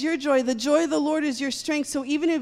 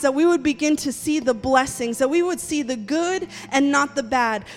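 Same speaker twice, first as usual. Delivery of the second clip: rising, loud fervent prayer over the people; 4 dB louder than usual. Real, not acted. Pastor praying over the congregation, loud and fervent. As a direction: pray it out boldly, pressing on each line.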